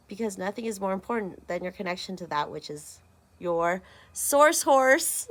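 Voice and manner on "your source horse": high squeal. Pretend. Playful high squeal on horse.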